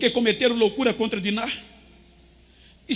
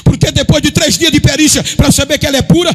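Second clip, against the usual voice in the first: loud, raised, driving preacher delivery; full-force preaching; 3 semitones higher, 7 dB louder than usual. Real, not acted. Preacher to congregation on the wedding banquet, full-force preaching. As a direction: preach it out at full volume, building.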